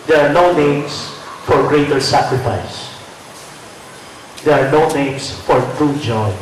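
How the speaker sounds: measured recital with long pauses between phrases; formal speech. Real, not acted. Host explains to the audience why poetry matters, formal speech. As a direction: deliver it as a prepared address, letting each phrase settle.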